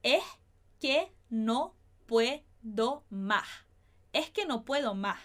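es que no puedo más with s breathed as h, first take very slow; aspirated s. Shown as a demonstration. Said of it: "a gente falaria dessa forma".

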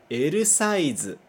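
"L size" as eru saizu; Japanese L size. Shown as a demonstration. Teacher modelling "L size" for students to repeat. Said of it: "vamos ler".

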